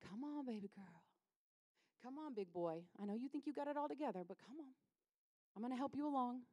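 softly coaxing, like a lightly voiced God; gentle coaxing God. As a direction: nudge them along tenderly. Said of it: "I don't have a God voice".

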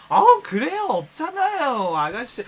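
high, loud sarcastic retort; mock sarcasm. Mocking the bragger in front of friends. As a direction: sneer it back, slowing down.

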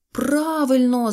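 high, loud, drawn-out cheer; delighted. Acted. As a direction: agree gleefully, stretching the word. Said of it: "зрадів Сиропчик". (радісний протяжний вигук)

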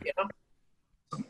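usual speaking voice

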